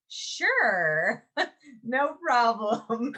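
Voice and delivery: laughing nervously, drawn out slow. Retold or imitated. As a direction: squeeze the words out through an awkward laugh. Put on the spot, nervous agreement.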